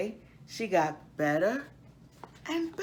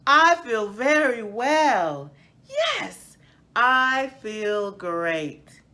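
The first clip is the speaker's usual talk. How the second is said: louder joyful cry, with a high squeal on Yes; joyful shout; 6 semitones higher, 9 dB louder, much slower than usual. Acted. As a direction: shout it out as the healed tree. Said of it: "Karen shouted".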